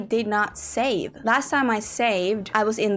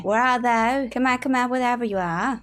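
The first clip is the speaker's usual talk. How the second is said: higher, coaxing call; higher-pitched hide-and-seek call; playful calling out; 4 semitones higher than usual. Pretend. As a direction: call out for something hiding. Calls out to missing ladders.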